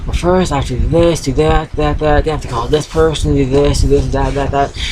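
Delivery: mimicking someone talking a mile a minute; mock rapid rambling. Retelling how he went on and on, mock rapid rambling. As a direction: rattle it off, lightly imitating a motormouth. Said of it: "like, a mile a minute".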